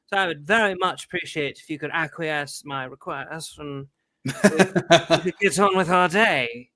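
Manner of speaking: pompous courtly plea, fading to a laugh; mock knightly speech. Stopped driver pleading with the cop in grand courtly style. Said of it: "He spoke exactly like that".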